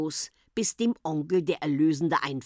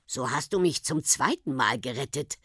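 tender; 4 semitones lower than usual. Acted. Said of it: "in innigem Ton zu Henriette".

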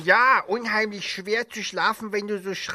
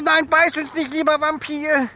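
higher, louder pleading; frightened plea; 8 semitones higher, 4 dB louder than usual. Acted. Meerkat begging the supposed vampire not to bite, frightened. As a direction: beg the vampire to spare you.

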